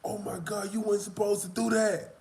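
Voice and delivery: high-pitched mock dismay; shocked neighbor. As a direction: imitate her scolding in shock, voice shooting up.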